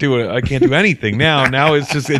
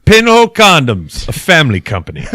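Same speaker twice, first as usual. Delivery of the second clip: fake ad slogan; 3 semitones higher, 4 dB louder than usual. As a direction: announce the brand name like a jingle. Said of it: "fake commercials".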